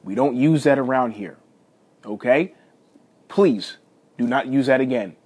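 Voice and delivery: lightly acted stern father; stern dad voice. Dad hiding his laughter from his son, mock stern. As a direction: lay down the rule, mildly stern dad. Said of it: "stern dad voice".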